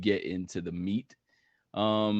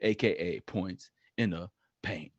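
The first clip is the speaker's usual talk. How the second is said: segment announcer. Acted. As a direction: announce each nickname with a swinging, stretched delivery.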